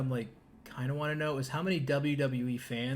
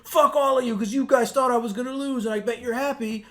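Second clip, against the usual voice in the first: higher, louder mock rant; imitating furious wrestler; 7 semitones higher, 7 dB louder than usual. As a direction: channel a bloodied wrestler cursing the crowd. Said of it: "He just went right out and said".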